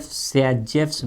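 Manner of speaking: सेजेफ्स with an s added at the end; variant pronunciation. Shown as a demonstration. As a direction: slowly say सेजेफ्स as "se-jefs". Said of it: "भी बोलते हैं". (सेजेफ्स के अंत में "स" जोड़कर धीरे बोलें)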